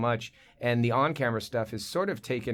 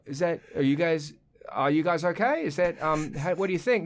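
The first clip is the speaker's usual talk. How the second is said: lightly Australian, tentative questions; Australian accent; 4 semitones higher than usual. Acted. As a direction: check on them in a mild Australian accent. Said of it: "I'm doing the Australian thing".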